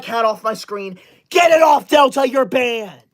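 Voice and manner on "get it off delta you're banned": angry shout. Acted. Streamer yelling at cat gift.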